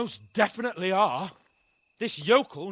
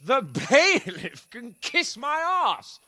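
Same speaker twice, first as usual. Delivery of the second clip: slow scornful sneer; 2 semitones higher, slower than usual. Acted. Drunk lord mocks the bailiff.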